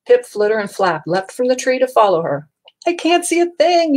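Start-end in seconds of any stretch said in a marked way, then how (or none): 2.9-4.0 very high, loud yell; panicked yell. A narrator's reading. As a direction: yell blind in the dark. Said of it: "yelled Pip".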